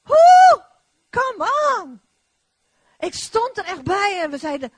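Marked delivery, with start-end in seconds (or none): 0.0-2.0 high, loud preacher's whoop; ecstatic shout. Real, not acted. Preacher whooping to the congregation, high and loud. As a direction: whoop it up in praise. Preacher cheers during the testimony.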